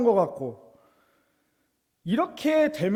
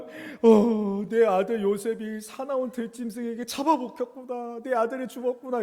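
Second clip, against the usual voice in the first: acted grief; 3 semitones higher than usual. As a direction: play a father mourning his son. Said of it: "이러면서 엄청 슬퍼합니다".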